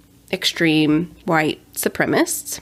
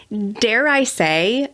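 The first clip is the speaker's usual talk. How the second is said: mock hesitant; 3 semitones higher, much slower than usual. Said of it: "you don't need to dare I say".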